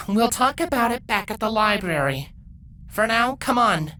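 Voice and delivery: Twilight, firm mentor. A narrator's reading. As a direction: lay down the law kindly. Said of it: "Twilight sighed".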